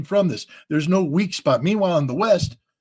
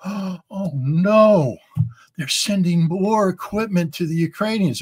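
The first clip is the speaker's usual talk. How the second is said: hammed-up alarm, higher pitched; mock panic; 5 semitones higher, slower than usual. Pundit mocking imagined Russians panicking over Western weapons, mock alarm. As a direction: play a panicked Russian, tongue in cheek. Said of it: "The Russian people aren't going to go".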